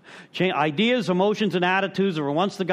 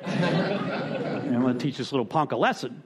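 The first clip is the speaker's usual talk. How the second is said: laughing mock threat; 4 semitones lower than usual.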